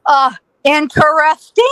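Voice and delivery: slow, drawn-out puzzled reaction; stunned understatement. Retold or imitated. Witness after the shooting stops, slow bemused verdict. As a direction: stretch the word out syllable by syllable.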